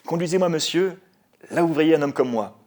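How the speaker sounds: loud, high, theatrical plea; calling to driver. Acted. Passenger asking the driver to take him, calling out. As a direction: project it to the man at the wheel. Acted order to the taxi driver.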